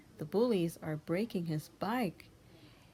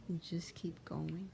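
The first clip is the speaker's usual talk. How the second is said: gentle slow whisper; 5 dB quieter than usual. Real, not acted. Comforting viewers, slow whisper.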